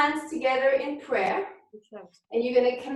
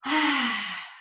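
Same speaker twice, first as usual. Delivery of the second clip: release sigh. Shown as a demonstration. Teacher showing the class a releasing sigh. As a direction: open sigh on ah. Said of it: "a good way is just to release".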